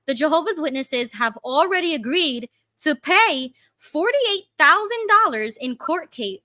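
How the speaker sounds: steady, careful article reading; measured read-through of a news report; news article read-aloud. Acted.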